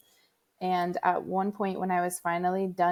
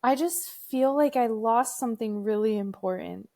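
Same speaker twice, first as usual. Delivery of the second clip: son's sad line; 4 semitones higher than usual. Retold or imitated. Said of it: "And he goes".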